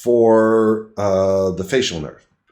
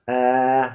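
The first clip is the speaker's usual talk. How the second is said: demonstrated tongue-out "uh". Shown as a demonstration. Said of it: "I demonstrate this for the patient".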